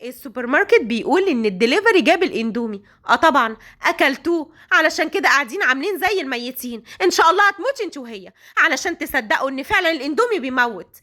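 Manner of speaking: scolding. Acted. Hagar to the two sick girls, angry scolding. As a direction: tear into the girls for worrying everyone. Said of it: "وهي بتزعق".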